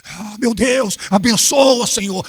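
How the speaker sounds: high, loud hammed-up praying voice; mock fervent prayer. Pastor mocking a bad-breath minister at prayer, hammed-up pious voice. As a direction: ham up a minister praying over someone.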